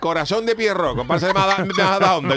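mock compère announcing the act; stage announcer. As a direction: announce the next comparsa to the hall. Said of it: "presentador de sala".

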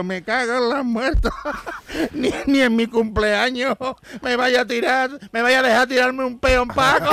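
slow, loud cranky grumble; grumpy old man. Retold or imitated. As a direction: cuss like a fed-up old man. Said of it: "dice el abuelo".

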